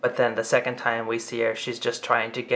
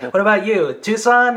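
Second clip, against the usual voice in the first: very high, louder thrilled calling out; hungry for more good news, pitched up high; unbridled excitement; 9 semitones higher, 7 dB louder than usual. Retold or imitated. Producer calling across the phone banks, very high and excited. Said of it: "delivers it with such unbridled excitement".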